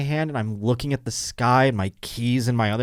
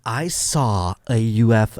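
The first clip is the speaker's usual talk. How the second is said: imitating excited fan; much slower than usual. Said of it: "she's like".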